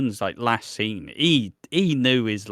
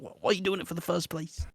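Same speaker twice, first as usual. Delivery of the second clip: higher, quick incredulous question; mock exasperation; 5 semitones higher, 8 dB quieter, faster than usual. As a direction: demand an explanation from the soap couple. Mock exasperation at soap couples.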